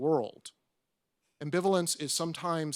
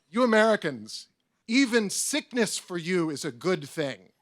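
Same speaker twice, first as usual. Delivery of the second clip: hint of French accent; 3 semitones higher, 6 dB louder than usual. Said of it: "I'm not gonna do the, the French accent".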